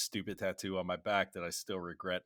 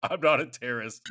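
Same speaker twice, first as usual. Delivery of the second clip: a touch louder, indignant denial; Sully protesting; 5 semitones higher, 7 dB louder than usual. Retold or imitated. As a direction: protest your innocence to the officers.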